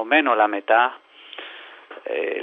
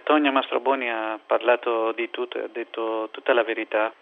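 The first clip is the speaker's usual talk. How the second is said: Greek accent. Real, not acted. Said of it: "scusate il mio italiano".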